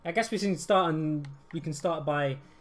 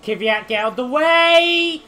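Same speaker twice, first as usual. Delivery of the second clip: furious drawn-out yell, much higher; raging gamer; 9 semitones higher, 8 dB louder, much slower than usual. Real, not acted. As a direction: bellow at the rival car. Yelling at AI driver mid-race.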